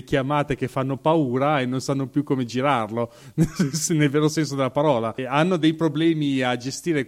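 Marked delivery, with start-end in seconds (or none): 3.4-3.9 brief chuckle mid-sentence; short laugh. Real, not acted. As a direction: let out a small laugh between phrases. Amused at own remark.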